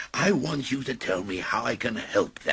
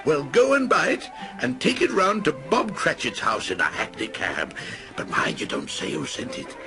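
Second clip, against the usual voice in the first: eager orders; 8 semitones higher than usual. Acted. Scrooge sends the boy for the turkey, eager. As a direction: hurry the boy along.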